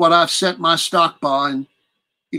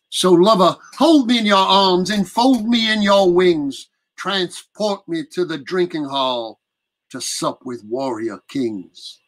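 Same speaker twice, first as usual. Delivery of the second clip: poem recitation. Acted. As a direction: recite a warrior love poem with feeling.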